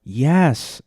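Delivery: loud, high-pitched impression; Jeff Goldblum. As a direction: blurt it high, as a shaky attempt at the actor. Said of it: "Yeah, I can't do him anymore".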